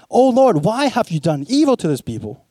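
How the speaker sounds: a touch of aggrieved victim, pitched high; quick, high, protesting plea; victim's complaint. Acted. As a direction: plead like a wronged victim, mildly hammed-up. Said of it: "That was a voice of a victim".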